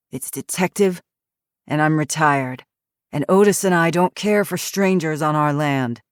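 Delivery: put-on hoarse, grumpy old ex-cop; gruff old man. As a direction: growl it like a surly old man. Grumpy retired cop speaks.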